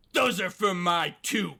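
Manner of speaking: hammed-up brave mother; acted declaration. Acting mother's dramatic declaration.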